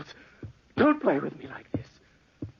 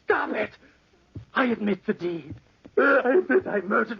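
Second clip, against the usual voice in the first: much higher, crying out; anguished cry; 10 semitones higher than usual. Acted. Charles breaking down before the inspectors, crying out. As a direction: break down begging.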